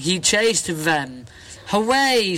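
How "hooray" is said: cheering hooray. Acted. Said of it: "said the big skeleton".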